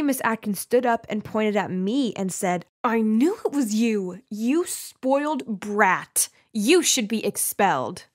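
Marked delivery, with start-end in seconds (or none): 2.8-8.1 drawn-out, scornful telling-off; acted indignant teacher, not shouting; angry accusation. Teacher pointing at the girl in the meeting, angry accusation.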